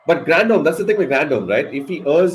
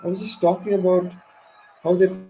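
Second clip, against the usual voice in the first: much higher, stunned pitch throughout; can't believe what just happened, voice jumping up; real fan in shocked disbelief; 5 semitones higher than usual. Real, not acted. Shocked reaction to the wicket.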